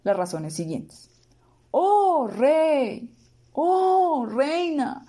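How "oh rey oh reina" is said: high ringing call to the king and queen; loud call. A narrator's reading. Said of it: "dijo en voz alta".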